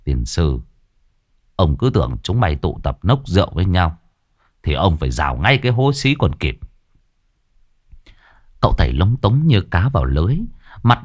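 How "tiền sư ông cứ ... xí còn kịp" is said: put-on grumbling old man. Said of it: "cằn nhằn".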